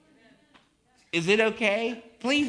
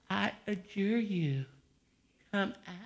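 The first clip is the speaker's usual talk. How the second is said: mock-gentle exorcism; 6 dB quieter than usual. Preacher parodying a timid Jesus to the demoniac, limp mock command. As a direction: feebly ask it to leave. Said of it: "And the devils just floated away".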